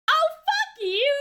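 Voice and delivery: loud, high, slow mock fury; angry. Real, not acted. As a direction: swear at the screen. Cursing at character on screen.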